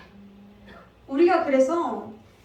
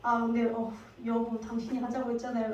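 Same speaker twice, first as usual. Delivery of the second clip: flustered husband; 3 semitones lower, 6 dB quieter than usual. Pretend. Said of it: "아브라함이 당황해서".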